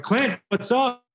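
high-pitched, drawn-out hail to a buddy; hearty greeting. Retold or imitated. Player walking into his manager's office, hearty greeting. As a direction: call out a big, high hello.

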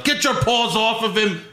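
mock yell. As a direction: imitate a wrestler yelling in protest. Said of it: "and Sheamus yelled".

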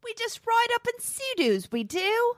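high, hammed-up Texas twang; mock Texas accent. Cohost joins the joke in a mock Texas twang. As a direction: play a goofy Texan bragging.

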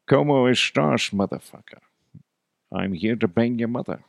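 mock Scottish accent playing a Spaniard; slurred Scottish take on Spanish greeting; Sean Connery. Scottish actor playing a Spaniard, mock Scottish accent. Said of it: "Sean Connery ... he's Scottish, but he's playing a Spaniard".

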